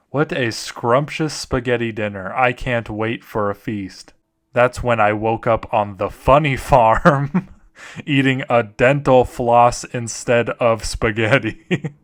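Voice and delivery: measured read that cracks into laughter; story narration. Acted. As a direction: narrate gravely, then struggle not to laugh. Reads a story, starting to laugh.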